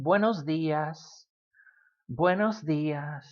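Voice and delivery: 慢速示范; slow model phrase. Shown as a demonstration. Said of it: "teacher models the phrase".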